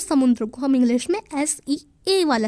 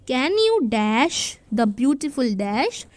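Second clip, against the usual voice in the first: slow worksheet read; much slower than usual. Shown as a demonstration. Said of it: "अब हमें यहाँ पर दो शब्दों में से लिखना है".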